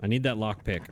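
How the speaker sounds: ordinary talk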